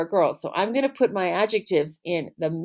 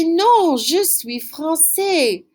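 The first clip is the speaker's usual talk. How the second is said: emphatic slow demo; 7 semitones higher, much slower than usual. Shown as a demonstration. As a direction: punch the Non, then slow right down. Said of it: "Or I could say".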